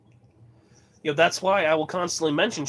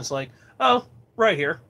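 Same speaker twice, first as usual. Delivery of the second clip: usual speaking voice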